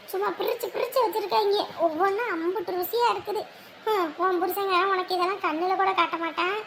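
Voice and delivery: mocking, laughing through the taunt; taunting with laughter. Taunting the outcast sister with a jeering laugh. Taunting relative about the feast.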